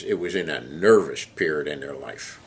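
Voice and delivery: lightly put-on southern accent. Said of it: "he says in his southern accent".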